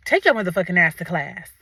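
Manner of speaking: retold low, stern telling-off; stern parent. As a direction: warn like a fed-up mother. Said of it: "You know when parents say that".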